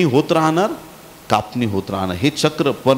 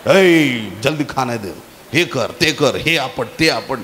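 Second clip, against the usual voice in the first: mock bossy husband. Husband ordering his wife about at home, mock bossy. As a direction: lightly play the tiger of the house. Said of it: "घरात असा वाघासारखा वागल".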